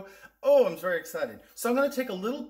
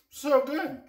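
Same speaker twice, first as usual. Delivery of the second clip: excited; 11 semitones higher, 6 dB louder than usual. Real, not acted. Tasting delight.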